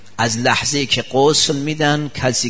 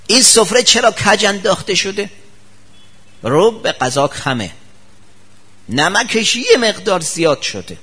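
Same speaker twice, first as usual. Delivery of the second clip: fussy complaint; 5 semitones higher than usual. Acted. Preacher acts fussy husband complaining.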